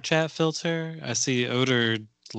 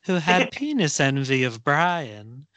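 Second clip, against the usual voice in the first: put-on slow, light Irish accent; 3 semitones higher, slower than usual. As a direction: recite a limerick in an Irish accent. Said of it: "I'm gonna try to do it in my best Irish accent".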